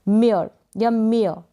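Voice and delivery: slow, first मेयर without r then मेयर with a light r; मेयर या मेयर, slowly, with and without the final r; two ways to say mayor. Shown as a demonstration. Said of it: "last में र भी इसको pronounce कर सकते हैं".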